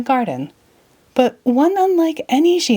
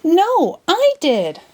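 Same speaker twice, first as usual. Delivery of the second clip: screaming; 10 semitones higher, much slower than usual. Acted. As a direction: scream it up to him. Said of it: "Alice screamed".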